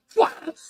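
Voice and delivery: high-pitched whack noise; imitated ladder smack. Retelling the ladder hitting Josh, imitated smack. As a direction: mimic the hit through amusement.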